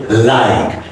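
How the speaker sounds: like with a wide, stretched I. Shown as a demonstration. Teacher showing students the stretched I in like. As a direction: spread the mouth wide on like. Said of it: "And I is very wider and stretched sound".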